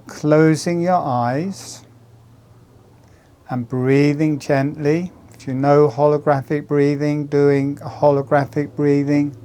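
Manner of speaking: calm guided meditation voice. Acted. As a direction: ease them into the breath.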